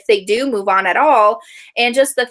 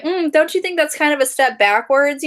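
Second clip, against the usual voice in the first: higher, condescending backhanded tone; snide judgment; 6 semitones higher than usual. Retold or imitated. Mocking the book club woman's backhanded remark, snide. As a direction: sneer it like a fake-nice gossip. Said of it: "And she was like".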